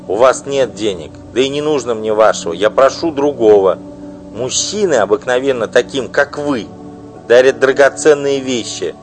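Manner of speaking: loud, high, bitter tirade; furious wife. Acted. Wife denouncing her husband's mistress, furious loud outburst. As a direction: spit out the insults at her rival.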